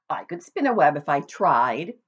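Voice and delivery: a pig boasting about what he could do. Acted. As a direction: puff up and brag to the spider.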